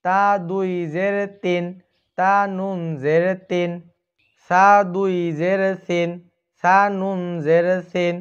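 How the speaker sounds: slow, sing-song drilling of letters and vowels; Quran recitation drill. Shown as a demonstration. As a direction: chant each letter the way a teacher leads a class. (কোরআনের তালিম সুরে উচ্চারণ)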